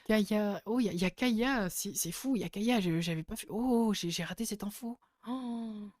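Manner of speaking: stunned to have missed the news; real delighted surprise; amazed discovery. Real, not acted. Discovers casting news they had missed.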